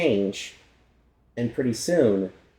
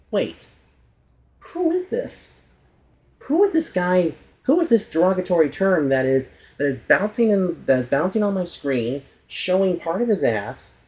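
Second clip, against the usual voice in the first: confused outrage; 4 semitones higher than usual. Retold or imitated. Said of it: "which led people to think".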